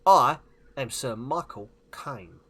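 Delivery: slow, loud celebrity impression; hammed-up film-star voice, slow and emphatic; Michael Caine. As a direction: announce yourself in heavy, measured pieces. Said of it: "Do a Michael Caine impression".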